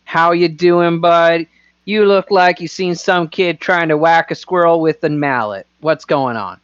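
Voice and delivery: lightly put-on folksy howdy accent; chummy howdy-do twang. Player coaxing a frightened boy to talk, in a howdy-do accent. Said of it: "put on my best, uh, howdy do, uh, accent".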